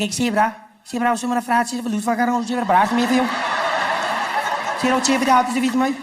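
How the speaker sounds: hammed-up Cape Town street patter; rattled-off Cape Town slang. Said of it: "they just rattle off".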